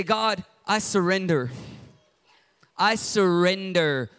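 slow, earnest surrender; surrender prayer. Shown as a demonstration. Pastor models a prayer of surrender, slow earnest. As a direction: let go as you say it.

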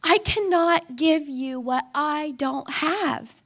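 slow, tired gentle plea; gentle mom. Retold or imitated. Mother finally calm with her son, slow gentle plea. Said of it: "And I'm like".

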